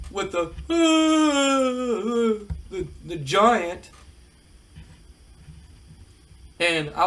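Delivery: lightly voiced heel taunting; mock heartbroken threat; wrestler promo. Nash threatening Dallas before main event, light promo voice. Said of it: "He goes".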